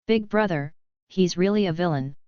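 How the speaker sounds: words pushed through clenched teeth; through gritted teeth. Acted. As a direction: grit your teeth and push it out. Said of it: "said through gritted teeth".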